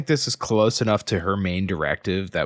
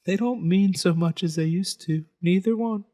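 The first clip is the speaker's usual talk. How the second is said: raised character voice; 8 semitones higher than usual. Acted. Reading character line.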